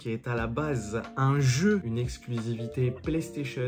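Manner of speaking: slow, hushed documentary narrator voice. Acted. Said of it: "t'as pris la voix d'un documentaire sur Arte". (voix de documentaire Arte, lente et posée)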